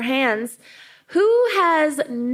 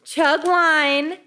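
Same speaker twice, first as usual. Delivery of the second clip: podcast intro; slower than usual. Acted. Reads the show intro.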